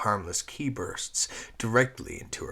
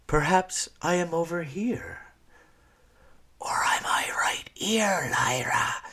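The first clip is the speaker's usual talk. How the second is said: Squeak's taunting lilt roughened to a rasp; harsh gravelled whisper; 11 semitones higher, 5 dB louder than usual. Acted. Squeak taunting Lyra from the shadows, harsh whisper. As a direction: tease her from the dark, high and hushed. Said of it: "whispered a harsh, graveled version of a lilting voice".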